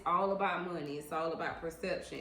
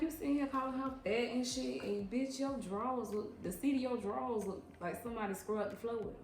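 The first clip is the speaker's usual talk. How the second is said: sassy clapback; 5 semitones higher than usual. Retold or imitated. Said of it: "I'm like".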